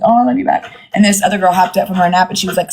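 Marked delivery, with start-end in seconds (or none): 0.0-0.8 high, sweet reply to a fan; retold affectionate gush. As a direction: coo it back, pitched up.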